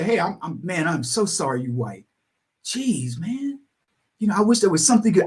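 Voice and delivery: a hint of a sorry, pitying stranger; mock pity. Mocked apologetic white kid.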